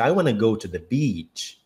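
slow American English "I wanna go to the beach"; sample sentence in an American accent. Shown as a demonstration. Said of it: "eu vou falar beach".

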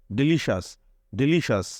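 ডেলিশাস with a শ sound in the middle. Shown as a demonstration. Teacher showing the sh sound to students. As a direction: stress the শ in ডেলিশাস. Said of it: "সি এর উচ্চারণটা হচ্ছে এরকম".

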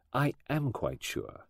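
slow, quiet and certain; a lightly voiced assured detective; calm Poirot. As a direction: softly settle the matter.

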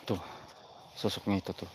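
suara rendah dan pelan, nyaris berbisik; bisik-bisik tegang. Real, not acted. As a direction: pelankan suara agar sosoknya tidak dengar. Berbisik karena sosok dekat. (bisikan tegang ke penonton)

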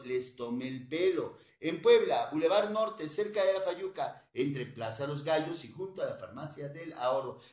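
brisk, pushy radio doctor selling remedies; hard-sell the tablets to listeners; radio sales pitch. Real, not acted. Radio doctor pitching tablets to callers, pushy.

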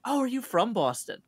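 high, loud impression of a curious old lady. Old lady asking a costumed stranger, imitated high and loud. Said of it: "the old lady's like".

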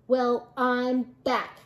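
slow, lightly growled announcement; a hint of a tough dog's growl; growling Big Bark. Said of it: "growled Big Bark".

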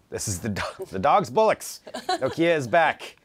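mock British accent, a laugh in it; hammed-up British read of a comment. Reading a viewer's comment in mock British accent. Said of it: "if I could do a really good British accent".

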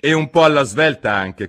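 loud, high, brusque demand; impatient. A narrator's reading. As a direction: hurry the sleepy one along. Hatter hurries the Dormouse.

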